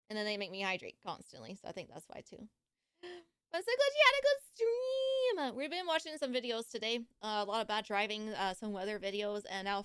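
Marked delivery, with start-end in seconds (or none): 3.5-5.6 high, laughing through the words; happy high laughing voice; laughing cheer. Real, not acted. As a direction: giggle while saying it.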